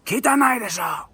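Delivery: high mock scolding question; imitating yelling lady. Vlogger imitating the lady scolding him about dirt, high mock yell. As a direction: squeal it at him like the angry lady. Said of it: "Like, yelled".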